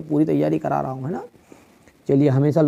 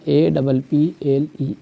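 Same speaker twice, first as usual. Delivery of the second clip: spelling out; much slower than usual. Shown as a demonstration. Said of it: "A for apple".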